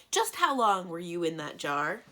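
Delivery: loud demanding question. A narrator's reading. Cimmerian presses the djinn, loud demand. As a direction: press him hard for the truth. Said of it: "she demanded".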